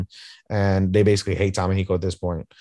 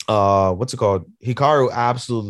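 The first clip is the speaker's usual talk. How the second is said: normal talking voice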